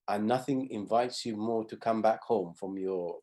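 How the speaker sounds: ordinary talk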